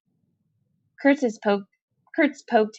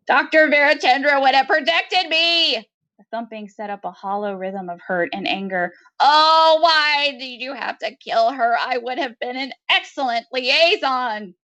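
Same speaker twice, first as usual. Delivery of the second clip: higher, keening grief; grieving creature; 4 semitones higher than usual. Acted. Kurtz grieves the doctor to Maudie, higher and keening. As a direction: mourn her with a keening cry.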